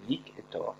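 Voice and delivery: Vic et Thor, each syllable said apart and soft; syllables split. Shown as a demonstration. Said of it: "composé de deux syllabes". (Vic et Thor détachés)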